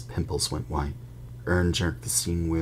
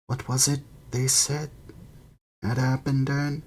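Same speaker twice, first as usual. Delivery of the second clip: lightly voiced gossiping bus conductor; a hint of eager young conductor; Stan's voice; 2 semitones higher than usual. Stan gossiping to Harry on the bus, lightly voiced.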